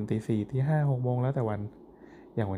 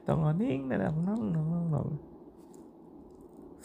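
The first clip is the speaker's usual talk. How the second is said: higher, slow sing-song recorded-message voice, a little exaggerated; lightly voiced hold recording, higher and slow; mock call center hold voice; 6 semitones higher, 4 dB quieter, much slower than usual. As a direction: play the automated hold line like a call center scam. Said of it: "เหมือนโทรไปแก๊ง call center".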